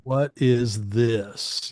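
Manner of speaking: very slow, stretched-out mock complaint; drawn-out disbelief. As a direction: drag out each word like a baffled DJ. Retelling annoyed DJs' reaction.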